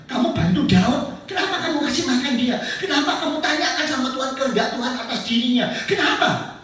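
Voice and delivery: loud, accusing king; king grilling the priest he suspects; angry interrogation. Acted.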